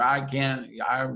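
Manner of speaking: put-on the scared child refusing; whiny child. Inner child protesting to the grown-up, high childlike voice. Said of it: "the child going".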